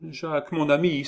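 high-pitched anxious exclamation; acted girl's high outcry; pleading cry. A narrator's reading. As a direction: cry out to a friend for help. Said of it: "s'écria Gervaise".

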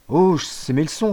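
put-on cheeky boy's excuse; quick excuse. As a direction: toss off an innocent excuse. Son's excuse. (excuse lancée vite)

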